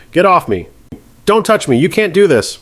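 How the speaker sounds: high, furious yells; fighting off bailiffs. Acted. Defendant fighting the bailiffs, high furious yelling. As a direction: shove the words at them.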